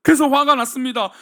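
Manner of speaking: loud, forceful announcement of anger; angry declaration. Acted. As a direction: punch 그래서 화가 났습니다 like an accusation. Preacher stresses Cain's anger.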